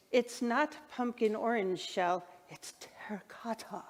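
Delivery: a hint of her father's funny way of saying it; imitating her dad. Daughter voicing her late dad's running joke, lightly imitated. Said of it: "he'd have this really funny way of saying it".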